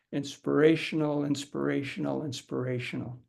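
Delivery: steady one-breath chant that trails off quietly; one-breath repetition. Shown as a demonstration. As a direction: say it three times on a single breath, letting the air run down. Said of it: "we're gonna say the word three times in succession".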